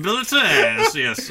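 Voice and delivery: word said with a French accent. Shown as a demonstration. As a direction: say abilities the French way. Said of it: "You got that French accent still going".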